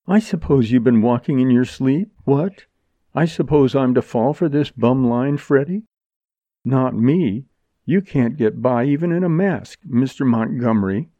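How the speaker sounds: lightly voiced sarcastic woman; disbelieving heroine. Jerry refuses to believe Montgomery, with mocking disbelief. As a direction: show him you see through the act.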